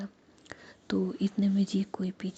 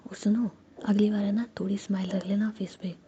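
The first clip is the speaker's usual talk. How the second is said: whisper. Acted. Whispered storytelling throughout.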